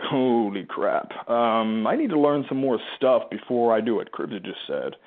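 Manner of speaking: mock-anxious listener, drawn-out opening; sarcastic. Coach voices an anxious listener to the group, gently sarcastic. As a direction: stretch out the exclamation with light sarcasm. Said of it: "I say that with all sarcasm".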